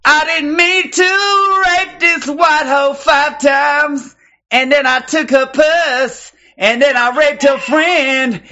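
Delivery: high, slow, hammed-up pleading to Jesus; mock prayer. Pretending to confess to Jesus, hammed-up slow pleading. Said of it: "all I gotta do is say".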